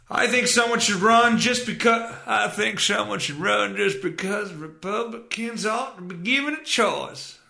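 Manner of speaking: lightly voiced Jeb Bush, barely changed; a weak stab at a Jeb voice; an offhand, half-hearted politician impression; bad Jeb Bush impression. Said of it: "That was a horrible Jeb Bush impression".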